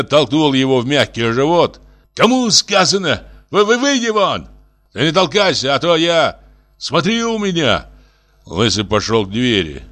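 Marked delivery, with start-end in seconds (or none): 2.1-6.4 high furious shouting; a small man shouting up at a big one; angry yelling. A narrator's reading. Senya throws Lysy out. 6.8-7.9 high angry warning; a fierce high threat. A narrator's reading. Senya threatens Lysy.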